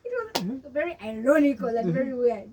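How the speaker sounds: laughing. Real, not acted. Still laughing after the story.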